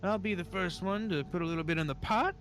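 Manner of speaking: put-on high old-timer voice, hesitating and chuckling; old man. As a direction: play an old man easing into a card game. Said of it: "The old man kinda looks at you all. He says".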